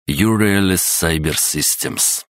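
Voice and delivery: sounding out slowly; slow careful reading. Acted. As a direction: read it syllable by syllable. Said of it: "текст был сложнее". (медленное чтение по слогам)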